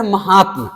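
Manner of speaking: महात्मा ending "mahaatm", no ya sound; common mispronunciation. Shown as a demonstration. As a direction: let महात्मा end short on tma. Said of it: "कुछ लोग बोलते हैं महात्मा".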